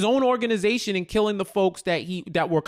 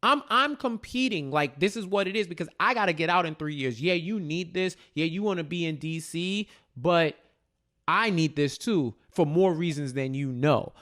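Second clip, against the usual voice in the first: quoting Tariq. Retold or imitated. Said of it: "he tells Lauren, like".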